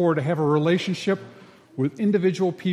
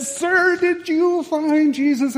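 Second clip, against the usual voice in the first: preacher's question; 10 semitones higher, 4 dB louder, slower than usual. Retold or imitated. Preacher repeats, shaking him.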